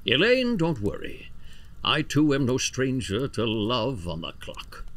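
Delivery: lightly grandiose storyteller; theatrical monologue. Acted. Boss confiding an old love affair to Elaine, mock-grand. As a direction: reminisce with mock-romantic grandeur and swelling phrases. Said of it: "This was the one monologue that they cut".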